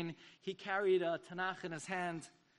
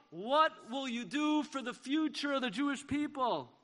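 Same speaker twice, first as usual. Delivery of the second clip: echoed cry; 4 semitones higher than usual. Retold or imitated. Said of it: "he hears Rav Herzog's cry".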